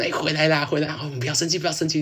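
mock coaxing. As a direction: coax a sulking friend back. Teammates coaxing her back.

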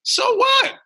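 high, punchy imitation of a mentor; tough-love mentor. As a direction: fire each so what back like a challenge. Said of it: "And he said".

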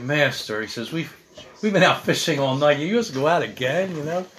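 tired, reluctant sigh through the words; a hint of exasperated sighing; weary sighing. Peter answering Jesus after a fruitless night, weary sigh. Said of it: "you can hear the sighing in, in Peter's voice".

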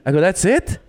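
high, incredulous questions; recalling his astonishment as a boy; retold disbelief. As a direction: act stunned that he got away with it. Retold shock at friend's talkback.

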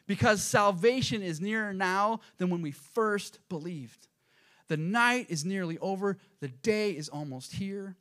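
preacher declaiming a Bible verse; scripture reading. Acted. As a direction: read the verse out slowly to the congregation. Reads scripture aloud to church.

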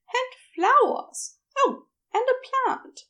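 smiling as she teases; with a grin. A narrator's reading. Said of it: "she said with a grin".

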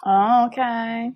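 hushed okay; whispering. Real, not acted. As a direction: whisper back in agreement. Whispered reply to secret.

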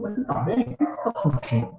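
soft, gentle questioning; caring check-in. Acted. Counselor turning from argument to someone's feelings, caring and soft. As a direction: ask softly, with tender concern. Gently asking after the other person.

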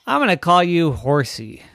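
high, loud teasing sister; little sister voice. Acted. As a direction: squeak it out like a bossy big sister.

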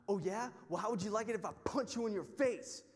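imitating a belligerent challenge; retold threat. Stranger threatens to punch him.

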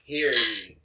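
loud proclaiming town crier. Pretend. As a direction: call it out like a herald. Podcast intro proclamation.

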